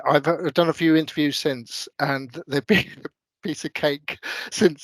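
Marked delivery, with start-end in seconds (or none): 2.5-4.8 said through a chuckle; amused. Real, not acted. Candidate recalling easier interviews since the daunting board, amused. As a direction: laugh lightly mid-phrase.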